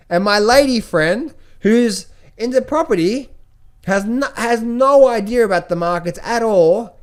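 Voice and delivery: can't believe everyone's piling in; amazed disbelief. Retold or imitated. Telling viewers his thought about the crypto frenzy, amazed and laughing. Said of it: "I thought".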